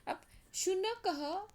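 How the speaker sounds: शुनकः said slowly, high and loud; teacher introducing the word शुनकः; new word stressed. Shown as a demonstration. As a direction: present शुनकः slowly to the class. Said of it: "शुनकः कहा जाता है".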